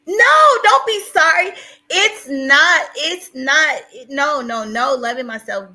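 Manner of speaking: high, loud, upset pleading; tearful protest. Real, not acted. Streamer telling viewers not to be sorry, tearful protest. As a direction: urgently reassure through tears.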